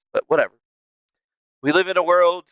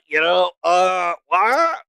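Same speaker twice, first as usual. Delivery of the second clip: laughing disbelief; 3 semitones higher, much slower than usual. Real, not acted. Reacting to war news.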